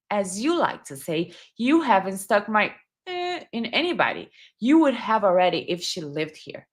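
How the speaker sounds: hurt, accusing letter read with feeling; a hint of wounded accusation; acting out the bitter ex. Shown as a demonstration. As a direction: play the betrayed partner. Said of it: "let me do the tone".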